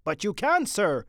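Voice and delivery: high, loud anxious protest. A narrator's reading. Sergeant protesting to Captain Mitty, anxious. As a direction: plead with a superior officer. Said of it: "said the sergeant anxiously".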